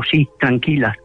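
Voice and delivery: retold reassurance. Diego answers his scared cousins, retold reassurance. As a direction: play down the alarm, dropping the pitch.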